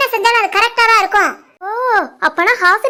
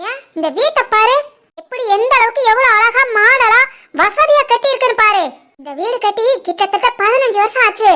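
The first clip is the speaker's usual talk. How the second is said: higher, boastful mother-in-law voice; mother-in-law defending her son, proud; 4 semitones higher than usual. Acted. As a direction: brag about her son in a raised voice.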